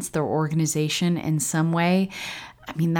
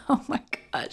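laughing disbelief; 9 semitones higher, 7 dB quieter than usual. Real, not acted.

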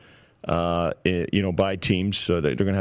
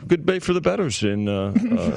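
laughing. Real, not acted. Laughing while conceding good day.

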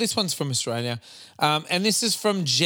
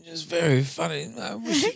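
Prince Charles impression; 4 dB quieter than usual. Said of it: "Pretend it's Prince Charles".

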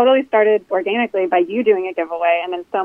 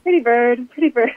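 parrot voice; 4 semitones higher than usual. Pretend. Repeats tattoo wish as a parrot.

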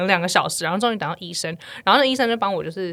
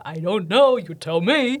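light mock British accent; dismissive British doctor accent; 2 semitones lower, slower than usual. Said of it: "你不要学英国腔".

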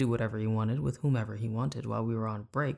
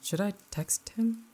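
high, slow wishful inner voice; tempted self asking; a lightly voiced eager inner self; hopeful inner voice; 8 semitones higher, slower than usual. A narrator's reading. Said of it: "two voices in my head started arguing".

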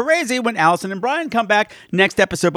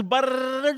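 rolled lips imitating a drum roll; quick half-hearted lip brrr; lip-trill drum roll; 5 semitones higher, 5 dB quieter than usual. Shown as a demonstration. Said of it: "that was the worst drum roll ever".

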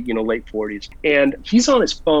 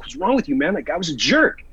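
mildly raised pitch, retold protest; indignant retort; 2 semitones higher than usual. Defending himself to his buddy, mildly indignant. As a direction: push back at a scolding friend, no shouting.

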